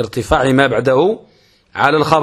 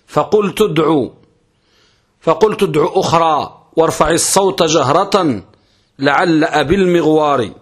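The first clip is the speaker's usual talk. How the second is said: reciting verse; 2 semitones higher than usual. Shown as a demonstration. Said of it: "هذا البيت".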